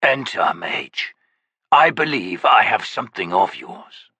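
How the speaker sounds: lightly rasped, broken creature voice; rasping creature. Acted. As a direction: rasp it from under a blanket. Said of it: "A voice rasped".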